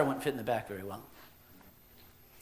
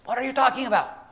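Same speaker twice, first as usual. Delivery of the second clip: mildly exasperated question, pitched higher; a little perturbed; 9 semitones higher, 4 dB louder, faster than usual. Acted. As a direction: ask it with a touch of irritation. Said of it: "I was getting a little perturbed".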